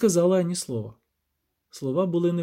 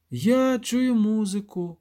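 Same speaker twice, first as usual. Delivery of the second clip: slow, higher, a touch of a sob; dazed and on the edge of tears; lightly voiced frightened whimper; mild sob; 7 semitones higher, much slower than usual. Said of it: "схлипнув раптом Любисток".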